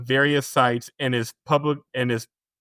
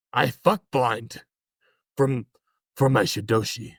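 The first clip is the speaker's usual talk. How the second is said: mock old martial arts master. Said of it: "the old Asian man you were doing".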